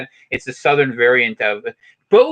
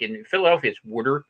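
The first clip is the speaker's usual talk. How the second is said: Philadelphia accent; 5 dB quieter than usual. Shown as a demonstration. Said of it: "the way that people say the word".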